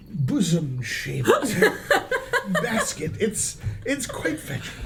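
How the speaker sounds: pompous nobleman voice; haughty noble. Acted. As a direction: play the snooty noble. Lofty noble character voice.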